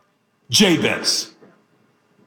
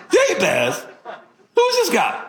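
puzzled; 6 semitones higher than usual. Retold or imitated. Puzzled at weird name.

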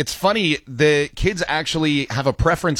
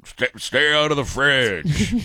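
tired mom; slower than usual. Pretend. Tired parent scolding kids.

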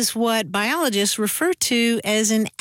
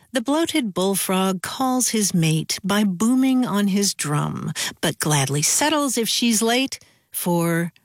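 reciting a poem; 3 semitones lower than usual. Acted. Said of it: "and it ends with".

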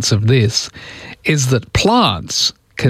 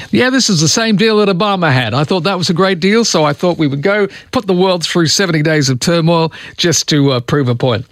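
higher-pitched mock boast; lightly voiced politician, pitched up; imagined Trump quote; 6 semitones higher than usual. Radio host imagining a president backing down, mock sincere. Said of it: "would want to go back and say".

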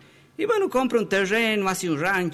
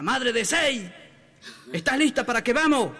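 raised, higher call as if across a party; mock shout; 4 semitones higher than usual. Husband to wife at a crowded party, mild mock shout. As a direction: call out so everyone hears, without real force. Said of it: "le grita".

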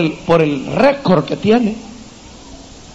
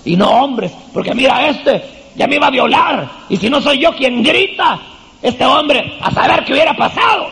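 mock complaint to husband; 2 semitones higher than usual. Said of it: "empieza a decirle".

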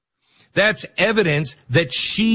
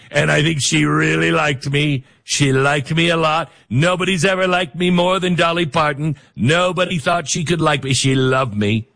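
light impression of a boastful politician; Donald Trump. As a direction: lightly mimic his rolling, repetitive bragging. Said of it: "'cause Trump does this all the time".

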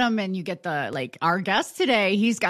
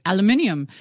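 British aluminium; 2 semitones lower than usual. Retold or imitated. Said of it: "he's like".

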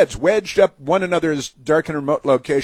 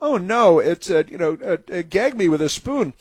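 lightly voiced Valley Girl, pitched up; a hint of imitated high-school girl talk; mock Valley Girl; 5 semitones higher than usual. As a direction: do a bit of Valley Girl dismay. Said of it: "like, Valley Girl stuff".

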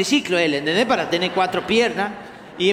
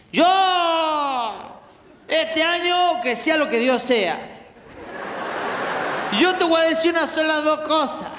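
put-on drunk ranting relative; 7 semitones higher than usual. Drunk relative rambles a toast at the family party, slurred. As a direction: play a drunk uncle making a muddled speech.

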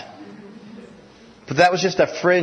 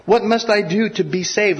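"What must I do to be saved?" pitched higher, begging, stress on "what"; pleading question; 7 semitones higher than usual. Acted. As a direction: plead it high, leaning on "what". Jailer's question acted again.

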